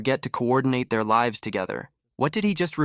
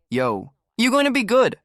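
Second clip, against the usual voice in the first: much higher, light mock reassurance; mock reassuring friend; 11 semitones higher, 4 dB louder than usual. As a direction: reassure him like a buddy, playfully. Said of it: "people that roll with him is like".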